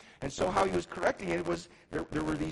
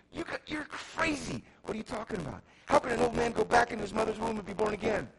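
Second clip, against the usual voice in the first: high, incredulous outburst, higher at first; Nicodemus exclaiming; 5 semitones higher than usual. Acted. Nicodemus exclaims at Jesus in disbelief, incredulous. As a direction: scoff at the idea as a baffled old scholar. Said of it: "exclaimed Nicodemus".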